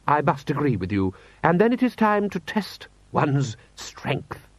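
high, drawn-out lordly close; haughty lord. Acted. Lord Rust agrees to a trial of strength, haughty.

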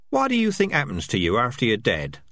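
squeaky rat chatter. Acted. Rats voiced in dialogue.

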